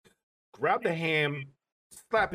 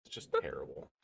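whispered disgust; 12 semitones lower, 10 dB quieter than usual. Real, not acted. Disgusted aside.

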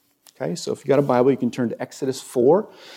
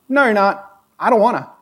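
higher, louder mock whine of a reluctant Moses; whiny Moses; 9 semitones higher, 5 dB louder than usual. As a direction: play Moses begging off his calling. Moses refusing God in retold scene.

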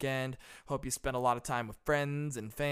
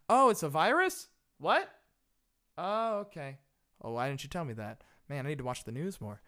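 sarcastic feigned surprise. Pretend. Feigning ignorance of the virus.

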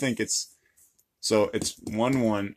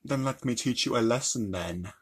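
light British accent attempt. Shown as a demonstration. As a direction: try the line in a British accent. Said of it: "Um, British".

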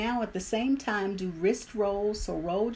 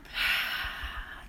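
audible breath out. Shown as a demonstration. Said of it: "out through your mouth".

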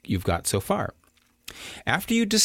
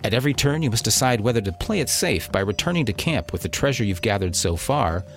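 dramatic radio announcer read. Acted. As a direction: sell it like an adventure trailer. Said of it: "That was my best radio voice".

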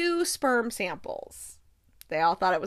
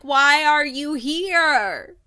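exasperated demand; 5 dB louder, much slower than usual. Retold or imitated. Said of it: "I'm like".

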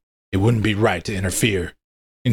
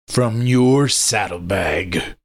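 growled; 2 semitones higher, much slower than usual. Acted. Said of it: "I growled".

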